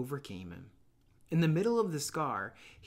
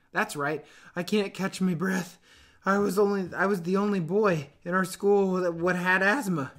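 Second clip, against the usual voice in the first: put-on fat boy, higher and louder, a little proud of his asthma; touch of pride; 5 semitones higher, 7 dB louder than usual. A narrator's reading. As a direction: show off the asthma, lightly. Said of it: "with a touch of pride".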